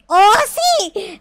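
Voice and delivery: loud, high cry of victory; triumphant cheer. Real, not acted. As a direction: cheer as you finally make it. Cheers at beating the parkour.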